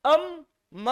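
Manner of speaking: अम drawn out and shut on म; blocked by M. Shown as a demonstration. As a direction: close अम firmly into म. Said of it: "अवरोध आ गया".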